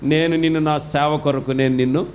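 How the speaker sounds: low voice of the Lord answering; voice of God. Acted. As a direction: speak low as God calling his servant. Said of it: "ప్రభు అన్నాడు".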